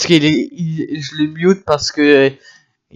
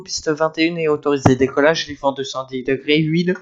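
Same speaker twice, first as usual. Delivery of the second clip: quick clipped tower radio read; air traffic controller; faster than usual. Acted. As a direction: rattle off the clearance fast. Controller gives takeoff clearance.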